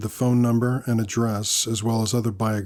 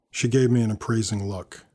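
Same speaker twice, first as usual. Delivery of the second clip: ordinary delivery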